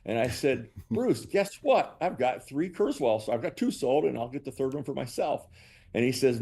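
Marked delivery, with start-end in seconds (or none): 0.9-5.5 excited announcement. Retold or imitated. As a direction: replay proudly breaking big news. Retells announcing good news to rep.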